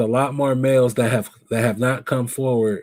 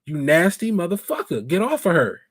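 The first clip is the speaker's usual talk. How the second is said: mock screaming at him; 5 semitones higher than usual. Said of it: "I would have been screaming something totally different".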